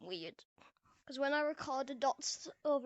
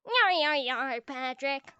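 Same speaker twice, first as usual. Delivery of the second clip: meme voice; 3 semitones lower, 5 dB louder than usual. Pretend. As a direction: bellow it like a cartoon meme, then sink. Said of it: "make memes with my voice".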